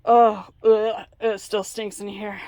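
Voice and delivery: loud, choked groan of disgust; gagging at the smell; smelling something awful. Real, not acted. Fridge still stinks.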